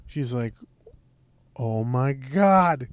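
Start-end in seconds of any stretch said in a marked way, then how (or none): 1.6-2.9 slow, drawn-out mock yell; imitated sister's yell. Sister texting about the rat, mock yelling. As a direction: stretch each word like a held-back holler. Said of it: "She just yelled this across the house?".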